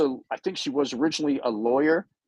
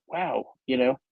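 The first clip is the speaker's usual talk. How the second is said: director note; 3 semitones lower than usual. Pretend. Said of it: "If I was a director".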